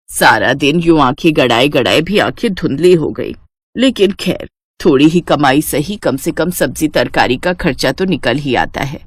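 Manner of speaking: a hint of a weary old mother; old mother-in-law.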